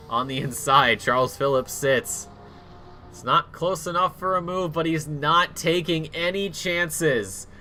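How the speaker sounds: steady, measured race commentary; live play-by-play. Acted. Commentator calling a sim race to viewers, steady play-by-play. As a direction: call the laps in an even broadcast voice.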